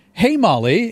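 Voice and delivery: high sing-song wake word; wake-word call. Shown as a demonstration. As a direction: call her like a voice assistant. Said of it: "repeat back in a robot voice".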